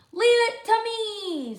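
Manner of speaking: loud, high, slow; confident Sophie. Acted. Sophie answering Luther, loud and confident. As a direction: take charge proudly.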